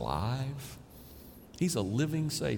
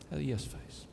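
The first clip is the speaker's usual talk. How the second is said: much softer, almost to himself; soft echo; 10 dB quieter than usual. Shown as a demonstration. Pastor savoring the punchline for the church, softly echoed. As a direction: let it fade as you savor the line.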